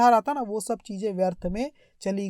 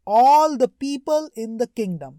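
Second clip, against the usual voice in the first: slow emphatic reading; 2 semitones higher, 6 dB louder, much slower than usual. Shown as a demonstration. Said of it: "reading slowly with emphasis".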